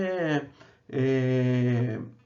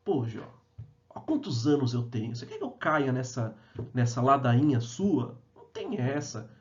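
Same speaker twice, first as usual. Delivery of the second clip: scoffing friend; 2 semitones lower than usual. Retold or imitated. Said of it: "os amigos falam assim".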